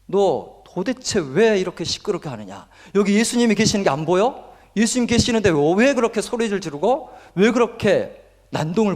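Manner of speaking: mock crowd telling someone off; scolding. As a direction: scold with incredulous questions, not shouting. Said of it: "꾸짖습니다".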